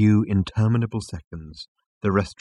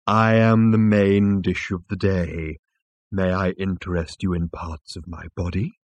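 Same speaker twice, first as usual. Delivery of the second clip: lightly voiced placid bovine waiter; obliging dairy animal; 4 dB louder than usual. Dairy animal offers itself as dinner.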